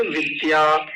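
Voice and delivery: विद्या with unaspirated d plus y; correct form. Shown as a demonstration. Teacher giving a familiar example, विद्या with plain dy. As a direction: keep the d of विद्या free of breath. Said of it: "ये तो सही उच्चारण है".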